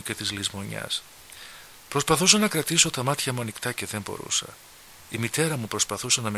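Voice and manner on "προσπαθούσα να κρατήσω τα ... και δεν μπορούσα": plain reading voice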